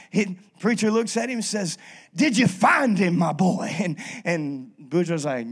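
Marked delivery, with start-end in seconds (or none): 2.1-3.7 preacher's question. Retold or imitated. Preacher voiced in joke.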